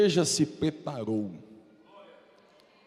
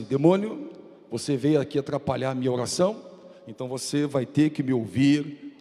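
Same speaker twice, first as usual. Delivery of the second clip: commanding rebuke; 10 dB louder than usual. Retold or imitated. Preacher retelling how he rebuked the demon in his bedroom, building to a roaring shout.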